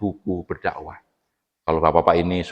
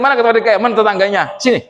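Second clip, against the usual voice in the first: loud, much higher call of a judge in the hereafter; a booming stern judge calling for the culprits; stern summoning voice; 13 semitones higher, 4 dB louder, much faster than usual. Pretend. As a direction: summon them like an angry heavenly judge. Afterlife judge summons people.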